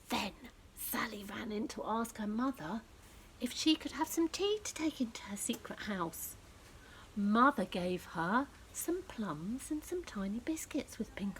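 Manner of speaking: gentle storybook narration; reading to children. A narrator's reading.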